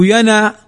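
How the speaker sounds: ينا as "yana", a after the n; noon with fatha. Shown as a demonstration. Teacher showing what we do not say, ينا ending in a. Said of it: "لم نقل".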